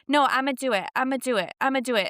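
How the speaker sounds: mock little boy insisting; insistent toddler. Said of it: "Parker's like".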